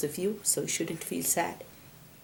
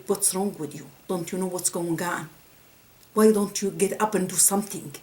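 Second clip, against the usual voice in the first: mildly raised voice, imitating an angry wife; retold angry scream; 5 dB louder than usual. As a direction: retell her scolding, louder on the last question. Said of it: "she screamed in his face".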